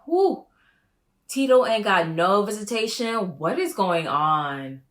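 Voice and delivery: high, loud whew of disbelief; shocked. Real, not acted. Shocked by Tito's lost visitation, high and loud. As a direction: react like juicy gossip landed.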